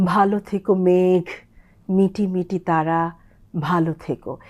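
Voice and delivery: ভালো with a breathy, drawn-out ভা; drawn-out bhalo. Shown as a demonstration. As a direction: stretch the ভা of ভালো. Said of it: "একটু টেনে ড্রল করে বলতে হয়". (ভালো টেনে বলা)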